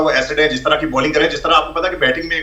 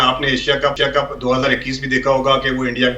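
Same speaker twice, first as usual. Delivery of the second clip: voice cutting out; 2 semitones lower than usual. Real, not acted. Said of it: "आपकी आवाज़ cut रही है ज़रा".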